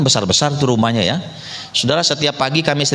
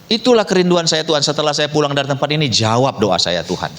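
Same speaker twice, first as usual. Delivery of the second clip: doa bergumul. Retold or imitated. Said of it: "bergumul di sana kepada Tuhan". (doa memohon yang menurun perlahan)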